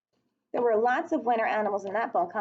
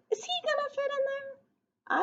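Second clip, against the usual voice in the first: playful suspense; 4 dB quieter than usual. Acted. Asks kids about the bear.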